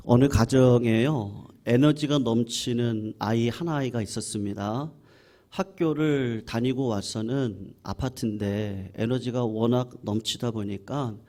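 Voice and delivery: ordinary talk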